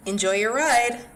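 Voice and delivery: bright, slow cheerful greeting; a ride attendant's sunny farewell. A narrator's reading. Ride attendant greeting guests, bright and slow. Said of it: "Diedrich heard a bright voice say".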